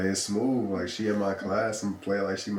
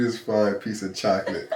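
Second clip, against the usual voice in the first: laughing; 2 semitones higher, 5 dB louder than usual. Retold or imitated. Repeats the quote laughing.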